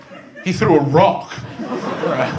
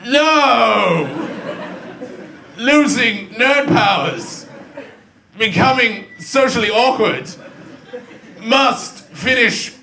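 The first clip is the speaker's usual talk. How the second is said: slow, drawn-out melodrama; hammed-up hero losing his powers; mock weakened hero; 2 semitones higher, much slower than usual. Nerd felled by his weakness, mock-heroic struggle.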